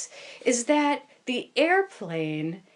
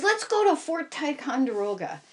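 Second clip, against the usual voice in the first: higher, keen and upbeat; eager suggestion; 7 semitones higher than usual. Retold or imitated. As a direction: pitch it like a treat. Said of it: "He says".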